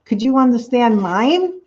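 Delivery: lightly incredulous retold questions; amused disbelief. Streamer answering her friend's accent worry, amused disbelief. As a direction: ask it back in mild, teasing disbelief. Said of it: "I started laughing. I was like".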